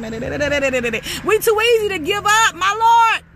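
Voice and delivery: very slow, stretched preaching; slow drawn-out repeat. Real, not acted. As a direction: stretch every word for weight. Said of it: "repeats the line drawn out".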